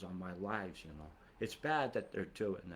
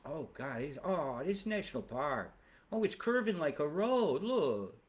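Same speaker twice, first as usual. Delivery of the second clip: higher, louder mock disbelief; mock astonishment; 5 semitones higher, 5 dB louder than usual. Pointing out a fire curving like a road, mock astonishment. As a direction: exclaim in put-on shock, building higher.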